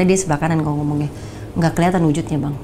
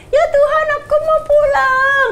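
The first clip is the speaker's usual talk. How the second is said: put-on very high, slow childlike plea; like a little child; 4 dB louder, slower than usual. Repeating to God that she wants home, high childlike and slow. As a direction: say it like a small child begging to go home. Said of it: "Kayak anak kecil".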